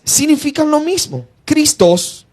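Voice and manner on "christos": Christos stressed on its second syllable; stress on final O. Shown as a demonstration. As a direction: put the accent on the O in Christos. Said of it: "con tilde, acento en la O".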